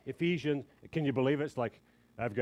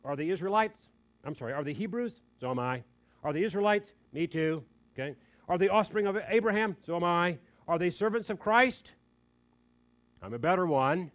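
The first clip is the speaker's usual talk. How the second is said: rising boast, louder each line; boastful Paul; 3 semitones higher, 5 dB louder, faster than usual. Acted. Preacher playing Paul boasting back to rivals, mock bravado. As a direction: voice Paul's one-upmanship with swagger.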